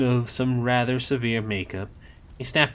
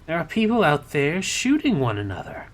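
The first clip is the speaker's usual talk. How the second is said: indignant; 8 semitones higher, 5 dB louder than usual. Acted. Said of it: "Aziraphale glared".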